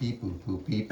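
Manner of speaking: flat beeping robot voice; toy robot voice. Pretend. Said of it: "I am a robot".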